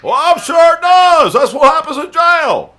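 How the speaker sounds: high, drawn-out yell; shouted retort. Acted. Answering Dan's complaint about jail, high loud shout. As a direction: shout it back at full force. Shouting back at jailed opponent.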